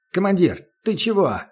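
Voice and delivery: stunned disbelief; taken aback. Acted. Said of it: "Диггер оторопел".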